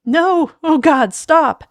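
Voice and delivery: high, loud desperate screaming; anguished shriek; tearful terror. Acted. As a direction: beg it to stop, near tears. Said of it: "He burst into tears".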